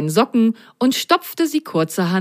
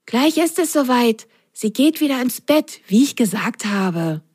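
high character voice, mildly pleased; lightly voiced contented sock, starting high; satisfied mock whisper; 5 semitones higher than usual. A narrator's reading. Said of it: "flüsterte Ron zufrieden".

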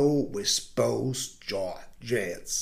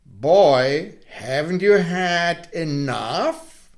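lightly voiced moon; 2 semitones higher, slower than usual. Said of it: "whenever the moon asked".

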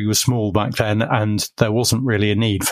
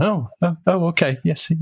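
higher, hurried stammering agreement; flustered compliance; 7 semitones higher than usual. Retold or imitated. Employee told to put the boss on, stammering and higher. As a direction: scramble to obey the caller.

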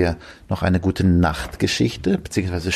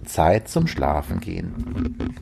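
slow and soft, stretch "Schlafen"; "Zeit zum Schlafen gehen" drawn out gently; slow soft goodnight voice; 3 dB quieter, slower than usual. Shown as a demonstration. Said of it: "Gute-Nacht-Stimme".

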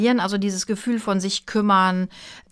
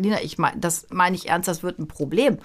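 understated, lower and serious quote; grave quoted father; 3 semitones lower, 4 dB quieter than usual. Retold or imitated. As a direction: quote Papa's earnest warning, slightly lowered. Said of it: "konnte gar nicht lachen".

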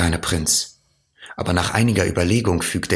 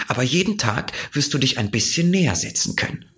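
fox; 7 semitones higher, faster than usual. A narrator's reading.

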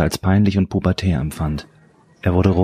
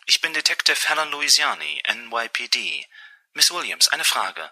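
higher, squeaky detective on the phone; piepsige Frauenstimme; 6 semitones higher, 4 dB quieter than usual. A narrator's reading. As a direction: introduce yourself officially in a small, high voice. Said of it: "eine etwas piepsig klingende Frauenstimme". (etwas piepsige Polizistin am Telefon)

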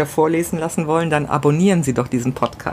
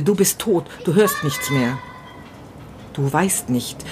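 grieving first-person monologue, read with pauses; dramatic story reading. A narrator's reading. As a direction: read it like a widower talking to himself.

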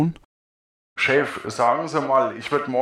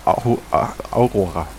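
stumbled name; 2 semitones lower than usual. Real, not acted. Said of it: "Genau, von Akte Aurora".

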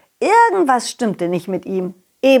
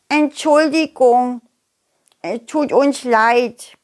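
put-on sheepish children; 3 semitones higher, slower than usual. Worm kids apologize.

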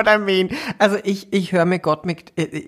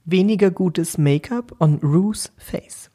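slow whispered clarification; whispered repeat; 3 semitones higher than usual. Real, not acted. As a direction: whisper it slowly, spelling it out. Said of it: "Und, und was?".

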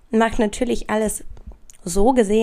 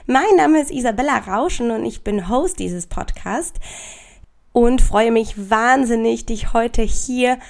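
stuffy cold voice. Real, not acted. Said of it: "die etwas verschniefte, ähm, raue, sexy Stimme ist nicht meine normale Stimme".

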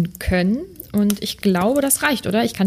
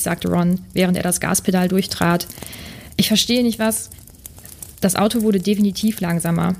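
measured audiobook-style read-aloud; story narration. Acted. Podcast host reading a translated story to listeners, narration. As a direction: read the tale evenly, dialogue lightly acted.

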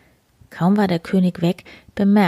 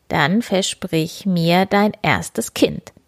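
slow sly demand; slower than usual. Acted. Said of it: "sagte das Männlein".

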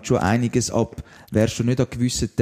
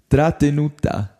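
Italian accent; 2 semitones higher, slower than usual. Shown as a demonstration. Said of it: "da wird's bei mir schwierig, um das überhaupt können aussprechen".

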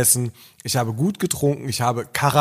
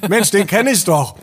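higher, louder retold exclamation; excited recognition; 6 semitones higher, 5 dB louder than usual. Dentist tells his son he knows the man in the video, excited. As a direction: blurt it out in mock-excited surprise.

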